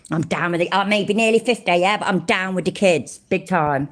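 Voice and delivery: mildly exaggerated in-your-face TikToker parody; mock try-hard hype. Mocking a TikToker trying to be down with the kids, mock hype. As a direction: play a man trying too hard to be cool. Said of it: "loud and in your face".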